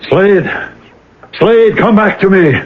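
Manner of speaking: high, pleading cry to the dead; anguished calling out. Acted. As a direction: call him back in desperation. Man crying out to dead friend.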